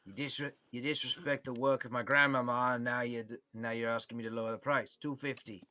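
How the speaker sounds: lightly voiced gnome, offended, firm on price; a hint of a proud craftsman defending his grandmama's work; indignant gnome shopkeeper. Gnome shopkeeper scolds, haggles.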